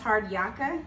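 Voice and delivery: "yaka" said YAK-uh, unsure rise at the end; tentative pronunciation. Shown as a demonstration. Mother guesses at slang, "yaka" tentatively pronounced YAK-uh. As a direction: try "yaka" as a question. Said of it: "I think it's pronounced".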